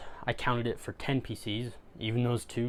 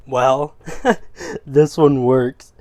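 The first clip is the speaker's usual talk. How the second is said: dawning joy; 2 semitones higher, 12 dB louder, much slower than usual. Real, not acted. Laptops work.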